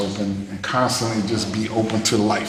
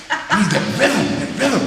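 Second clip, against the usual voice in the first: higher, eager voice of the caller; imitating Wayne; 9 semitones higher, faster than usual. Wayne calling Terrence about the rhythm, imitated eager higher voice. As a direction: mimic a friend excited on the phone. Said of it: "That's how he talks".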